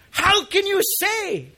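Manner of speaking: high, loud, slow reproach; fatherly hurt. Acted. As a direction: plead like a wounded father, drawing it out. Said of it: "fatherly hurt, is saying".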